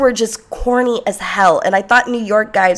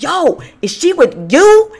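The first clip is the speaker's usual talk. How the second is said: guy hollering; 9 semitones higher, 6 dB louder, slower than usual. Retold or imitated. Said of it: "And he's like".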